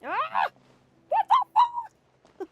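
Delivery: very high, loud shriek; real full-voiced screech; screaming. Real, not acted. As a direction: scream in shrill disbelief. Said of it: "I'm screaming in your ears".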